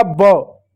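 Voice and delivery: ब sounded out as a phonic syllable, not "बी"; letter sound ब. Shown as a demonstration. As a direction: give B its short sound ब. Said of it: "हर consonant का sound होता है".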